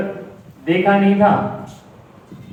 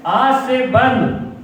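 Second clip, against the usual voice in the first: slow, higher-pitched retold declaration; mock solemn vow; 4 semitones higher, much slower than usual. Husband tells wife after the news, mock solemn vow. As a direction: draw out a husband's resolve, lightly acted.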